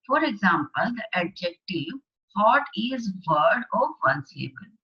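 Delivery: slow, deliberate classroom dictation; slow worksheet read-aloud. Acted. Teacher reading the worksheet aloud to class eight students, slow and deliberate. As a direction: read each phrase out slowly for the class.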